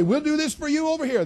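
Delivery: high, loud mocking politician voice; mock politician promise. Preacher mocking a politician promising voters, high and loud. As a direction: ham up a pandering politician.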